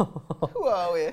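put-on slow, drawn-out Jamaican accent. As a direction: stretch it out Jamaican style. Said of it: "you do Jamaican".

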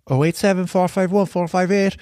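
hammed-up Cork DJ plugging the phone line; Stevie G. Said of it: "I would just impersonate Stevie G".

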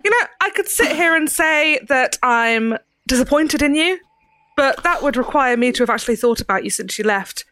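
light Cockney cold disappointment; soft Cockney. Acted. Ceridwen telling the prisoner she is disappointed, soft Cockney. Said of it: "A soft Cockney accent".

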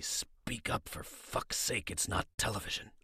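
unvoiced stage whisper, urgent. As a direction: hiss it under the breath. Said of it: "whispers to me".

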